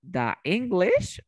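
"The English" slowly with THE said duh. Shown as a demonstration. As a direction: offer "The English" as duh English, rising. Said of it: "¿cómo se pronunciaría esto?".

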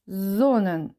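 SON-nen, weight on the first syllable; first-syllable stress on Sonnen. Shown as a demonstration. Teacher showing learners the accent, stress on first syllable of Sonnen. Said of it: "Наголос на перший склад".

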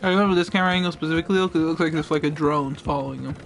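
talking while crunching chips; chewing chips between words. Real, not acted. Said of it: "Again, I apologize for all the crunching".

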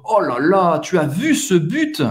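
impressed football fan, rising at the end; demonstrated mild excitement; excited. Shown as a demonstration. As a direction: marvel at the goal. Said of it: "você mais se empolga".

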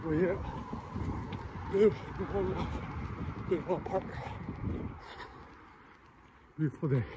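breathless jogging talk; gasping between words on a run; while running. Real, not acted. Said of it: "I'm kinda struggling".

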